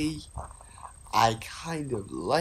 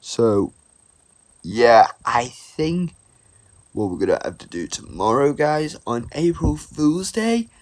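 excited shouting; 9 dB louder than usual. Real, not acted. Excited shouting about April Fools.

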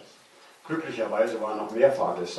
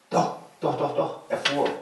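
excited realization; 5 semitones higher, 3 dB louder than usual. A narrator's reading. Narrator realizes train moves.

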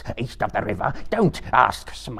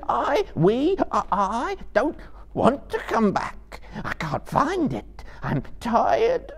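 very high, sobbing wail; 5 dB louder, slower than usual. Acted. Gollum pleads with his unseen torturer, sobbing. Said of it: "he sobbed in his throat".

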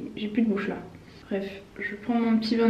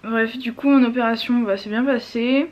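swollen mouth, talking stiffly; after wisdom teeth. Real, not acted. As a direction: speak through a swollen jaw. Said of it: "J'arrive pas à parler, c'est horrible".

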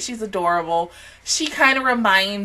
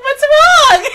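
high, louder faux-concerned ask; sing-song what's wrong; mock innocent; 9 dB louder than usual. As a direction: fake concern after pulling a prank. Pretending innocence after prank.

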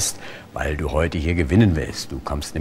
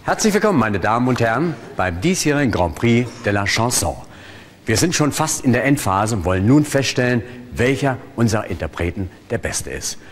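show host announcement; 2 semitones higher than usual. Acted. Hypnotist plays show host.

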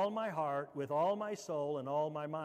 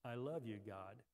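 soft, falling away to very low; hushed demonstration for others to repeat; quietly; 6 semitones lower, 8 dB quieter than usual. Shown as a demonstration. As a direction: let it sink into a quiet prayer. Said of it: "just say that quietly".

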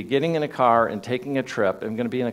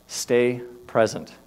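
slow calm voice; slower than usual. Retold or imitated. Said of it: "my mindset said".

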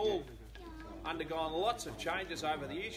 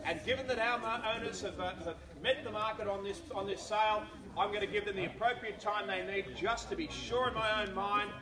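firm, projected address to the bidders; auctioneer's announcement; 4 semitones higher, 5 dB louder than usual. Real, not acted. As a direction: formally declare the property on the market.

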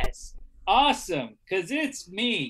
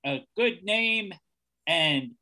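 put-on terrible American accent; 3 semitones lower than usual. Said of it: "trying a terrible monotone American accent".

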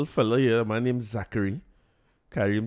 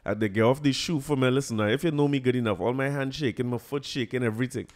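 ordinary delivery

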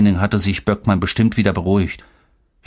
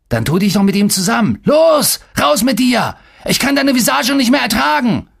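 high, loud-edged outburst; furious dismissal; 12 semitones higher, 3 dB louder than usual. A narrator's reading. Coach throwing the player out, furious outburst. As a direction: drive him out, voice pitched right up.

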